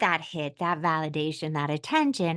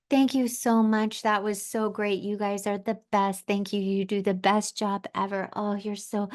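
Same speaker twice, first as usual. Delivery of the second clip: imitating gushing client; 3 semitones higher than usual. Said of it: "talked to the workers ... like she's known 'em forever".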